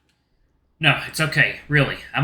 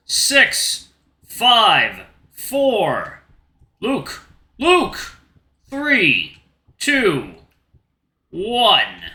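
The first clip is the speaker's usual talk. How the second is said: announcing countdown; 4 semitones higher, much slower than usual. Acted.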